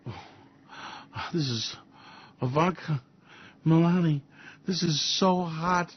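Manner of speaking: put-on breathy, gleeful toy-boy Trump; mock Trump. Trump talking to himself with the nuclear football, mock glee. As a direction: play him like a kid with a toy. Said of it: "He goes".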